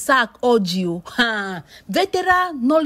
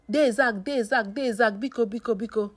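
soft pleading; 2 semitones lower, 6 dB quieter than usual. Retold or imitated. Voicing pleas to Zach, soft.

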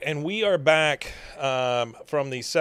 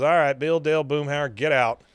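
mock stern dismissal, a little louder; retold firm order; 3 semitones higher, 5 dB louder than usual. Host as Hank clearing his friends out, mock stern order. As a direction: order them out, lightly acted.

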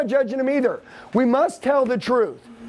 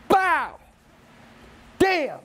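mock excited exclamations; 7 semitones higher than usual. Acting out an epiphany moment.

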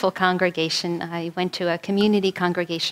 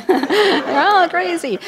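put-on high, loud, slow Italian-accented cry; Italian family exasperation; 9 semitones higher, 6 dB louder, much slower than usual. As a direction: drag it out like an exasperated Italian mother. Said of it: "Sounds like from an Italian family".

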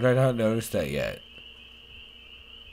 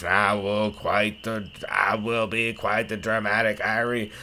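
measured, declaimed diary voiceover; solemn diary writer; 5 dB louder than usual. Acted. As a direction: read it as a vow, in character.

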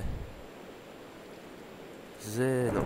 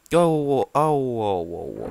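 mock pain cry; 4 semitones higher, 9 dB louder, much slower than usual. Cries out in pain in game.

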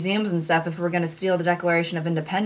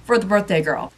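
entitled; 2 semitones higher than usual. Acted. Customer demanding free food.

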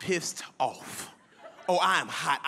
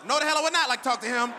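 emphatic refusal; 5 semitones higher, faster than usual. Retold or imitated.

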